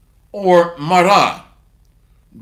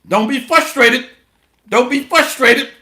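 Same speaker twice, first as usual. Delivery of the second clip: mocking parrot; 3 semitones higher than usual. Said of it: "Sound like a parrot".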